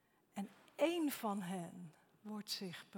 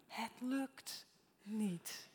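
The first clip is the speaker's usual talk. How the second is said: slow weary words; much slower than usual. Real, not acted. Preacher voices frustration.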